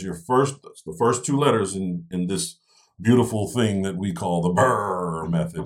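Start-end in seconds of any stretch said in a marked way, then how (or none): 3.0-5.7 slow playful "beautiful thing that we call the burr method"; drawn-out "burr method". Shown as a demonstration. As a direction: stretch out "burr method" fondly. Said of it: "I say it like that all the time because it's funny".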